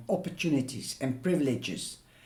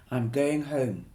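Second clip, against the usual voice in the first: through gritted teeth. Acted. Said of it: "through gritted teeth".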